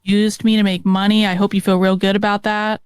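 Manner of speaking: mock-grateful jab; fake sarcasm. Real, not acted. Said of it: "this little fake sarcasm thing".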